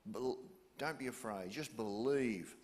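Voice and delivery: low soothing paraphrase, unhurried; soft reassurance. Acted. Jesus comforting Jairus, soft and low. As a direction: speak to calm a frightened father. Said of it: "So Jesus is saying".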